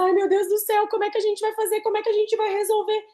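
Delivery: high, fast, fretting mock panic; nervous panic. Lecturer imitating herself in a nervous panic before the class. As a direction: replay her own flustered worry before going live. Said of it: "eu já tava aqui nervosa".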